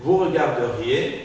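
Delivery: regarderiez slowly, as "re-gar-de-riez"; mute E pronounced. Shown as a demonstration. Teacher models regarderiez for student to repeat, E articulated. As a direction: keep the E before -riez in regarderiez. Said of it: "je dois la prononcer".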